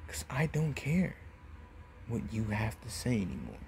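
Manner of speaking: hushed, near-whispered menace; quiet acted finality, sinking away; cold dismissal. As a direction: drop to a soft whisper to end the threat. Naruto coldly dismisses Gaara.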